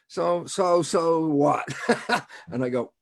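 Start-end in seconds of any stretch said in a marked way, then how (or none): 0.1-2.3 higher, louder, with a laugh; chuckling so what. Real, not acted. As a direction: toss it off laughing. Amused rhetorical punchline.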